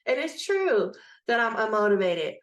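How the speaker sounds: lightly acted pleading argument; mock protest. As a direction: argue back as the imagined objector. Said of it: "you might want to argue with me".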